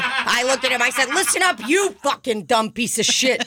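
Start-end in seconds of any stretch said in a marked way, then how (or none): 1.1-3.4 high, mock-angry telling off; mock yell. Retelling confronting a man in a restaurant, mock yell. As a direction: snap at the rude guy, hammed up.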